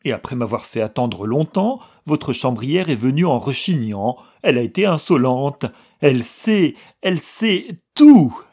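building from loud to a high shrieked elle sait tout; tearful outburst. Acted. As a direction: sob out the grievance, climbing. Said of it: "Nouvelle tempête de sanglots".

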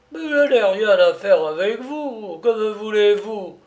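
put-on high, loud, surly old man. A narrator's reading. Old prisoner demanding what is wanted of him, surly. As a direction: snap back testily at your captor. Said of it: "fit Jérémie Flipot d'un ton rogue".

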